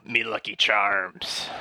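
slow, drawn-out Irish lilt on "Me Lucky Charms"; slow mock accent. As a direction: savour each word in a stage Irish accent. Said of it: "That accent".

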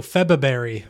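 February as FEB-uh-berry, first R lost; own pronunciation. Shown as a demonstration. Panellist takes his turn saying the month, February as FEB-uh-berry. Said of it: "say the month".

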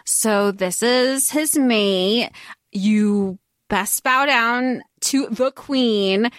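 slow, drawn-out royal order; mock imperious command. Brother-in-law ordering a bow to the queen, mock imperious. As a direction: draw out each word as a put-on decree.

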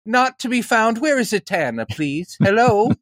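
high, eager fanboy at a panel; impression of himself. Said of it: "Is that a good impression of me?".

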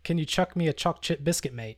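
The speaker's try at an Aussie accent; attempted Australian accent. Shown as a demonstration. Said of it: "one more challenge".

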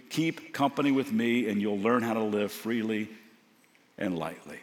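calm sermon scripture read. Acted. Reads Jesus's invitation.

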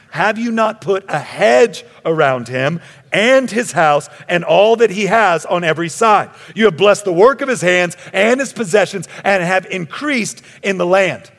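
accusing challenge. A narrator's reading. Reading Satan's accusing challenge.

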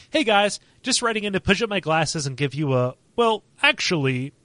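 nasal know-it-all "well, actually"; nerdy voice. Pretend. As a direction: play the pedantic nerd correcting everyone. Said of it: "in my nerdist voice".

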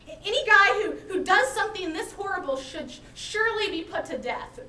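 loud, high condemning verdict; condemning conviction. Acted. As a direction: pronounce the sentence with conviction. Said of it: "says with conviction and with condemnation".

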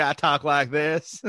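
slow drawled celebrity impression; Matthew McConaughey. Mocking an actor who sounds the same in every film, slow drawl. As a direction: stretch it into the actor's signature drawl. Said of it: "doesn't sound like Matthew McConaughey".

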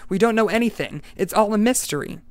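a hint of a frightened hunter; anxious. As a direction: still rattled, pressing the point. Travis continues in alarm.

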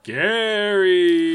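drawn-out spooky ghost call. Acted. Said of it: "I dropped out of ghost voice".

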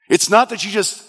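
driving, insistent pulpit delivery; emphatic sermon build; urgent preaching. Real, not acted. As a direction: pile up the points with fervour.

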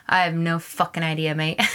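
imitated British accent, lightly done. Lost traveler answering a stranger, light British accent. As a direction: put on a casual British accent. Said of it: "In a British accent".

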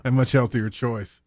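dry, understated sarcasm; deadpan the fake approval; sarcastic. Real, not acted. Co-host teasing the host about breakfast burritos, dryly sarcastic. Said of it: "picking up your sarcasm".

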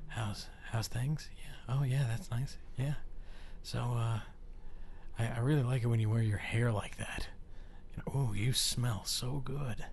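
soft, hushed, intimate murmur; sweet nothings. Pretend. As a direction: whisper sweet nothings in close. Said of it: "whisper sweet nothings into your ear".

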